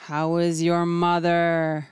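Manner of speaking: lightly voiced politician, very slow and deliberate; slow Prime Minister voice. The Prime Minister pointedly asks an athlete about her mother, slow. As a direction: drag it out like a knowing statesman.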